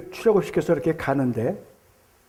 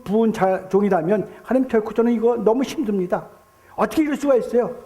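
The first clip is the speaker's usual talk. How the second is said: mildly raised, imitated protest to God; defiant outpouring. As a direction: act out David arguing his case with God. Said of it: "정말 대드는 거예요. 막 그냥 쏟아붓는 겁니다".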